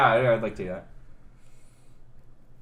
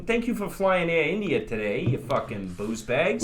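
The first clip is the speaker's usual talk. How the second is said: put-on New York accent. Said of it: "rough New Yorker".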